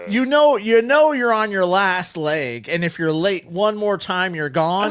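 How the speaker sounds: a boss fed up with the excuse; exasperated scolding. Retold or imitated. Telling off the late worker, exasperated and loud.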